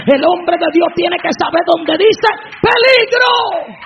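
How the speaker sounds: slow, booming shout of warning; preaching shout. Real, not acted. Preacher shouting a warning to the congregation, slow booming shout. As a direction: drive it home slowly at full volume.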